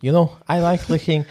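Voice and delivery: Liverpool accent. Shown as a demonstration. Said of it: "Jamie Carragher".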